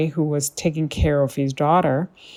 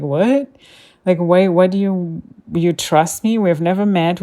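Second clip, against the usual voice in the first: incredulous, slightly raised pitch and volume; retold disbelief; 3 semitones higher, 4 dB louder than usual. Replaying her reply to the scammer's password request, incredulous. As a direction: recount being taken aback by an absurd request.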